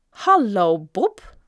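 loud, drawn-out greeting; called out. A narrator's reading. Bully calling to Bob from the bike rack, calling out. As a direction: call across to the boy. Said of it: "riep een van de larven".

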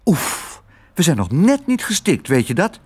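high, huffing little mouse voice; puff, then pipe up in complaint; Lodewijk. Acted. Mouse just freed from a stuffy bag, high huffy mouse voice. Mouse gasping after nearly suffocating.

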